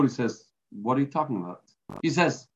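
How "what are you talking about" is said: calm, cool reply. Retold or imitated. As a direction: lower and softer, unbothered. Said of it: "The zookeeper kept his cool".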